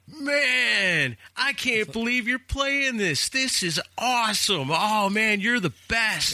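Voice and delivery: high-pitched, thrilled fan gushing; excited caller. Retold or imitated. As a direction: stretch it out in amazed delight. Acting excited caller praising the song.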